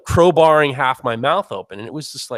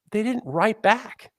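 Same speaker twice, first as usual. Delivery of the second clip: slow dramatic pause; 7 semitones higher, 3 dB quieter, slower than usual. Real, not acted. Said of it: "repeat for dramatic effect".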